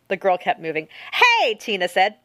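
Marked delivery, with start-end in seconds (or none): 1.1-2.2 high, loud call after someone; sharp shout. A narrator's reading. Tina to the girl who kept moving, shouting sharply. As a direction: shout it to halt someone walking past.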